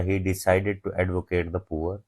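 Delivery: slow, word by word dictation. Shown as a demonstration. Teacher dictating an example sentence slowly to students. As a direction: spell each word out slowly for the class. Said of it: "as a verb use किया".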